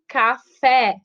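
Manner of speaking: café with a strong final FÉ; stress on last syllable. Shown as a demonstration. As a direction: split café in two, weight on fé. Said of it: "É uma sílaba forte".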